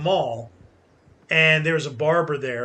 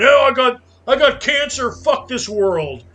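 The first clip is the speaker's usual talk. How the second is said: higher, louder mock outburst at the sky; hammed-up complaint against fate, shouted up high; mock fist-shaking rant; 6 semitones higher, 6 dB louder than usual. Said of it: "don't shake your fist at the sky going".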